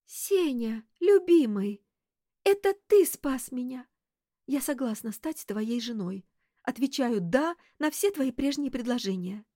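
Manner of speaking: hammed-up dying declaration, pitched high; theatrical last words to a beloved, high and wailing. A narrator's reading. Girl feigning death to tease the startled detective, dying voice. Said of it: "умирающим голосом позвала".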